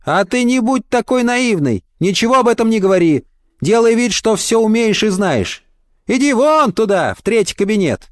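put-on high, animated old man coaching her; bossy kindly old doorman. Old doorman advising a naive job seeker, high and insistent. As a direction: push the advice on her, high-pitched.

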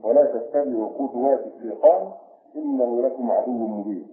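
measured, chanted verse recitation; Quran recitation. Acted. Teacher recites the verse to his students in chanted tone.

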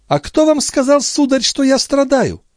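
put-on high, proud voice of a noble girl; haughty young lady. A narrator's reading. Andrea rebuffs Gilbert, haughty and defiant. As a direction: deny it coldly and proudly.

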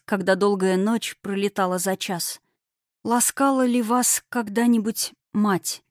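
measured, heartfelt verse reading; poem recitation. Acted. Author reads a poem about happiness to readers, heartfelt.

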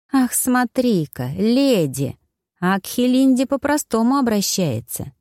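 high, drawn-out sneering exclamation; mocking indignation. Woman jeering that her rival gets called lady, mocking. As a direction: stretch the opening in mock amazement.

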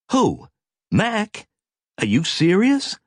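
high, incredulous questions; can't believe what she hears; shocked. A narrator's reading. Captain shocked by accusation.

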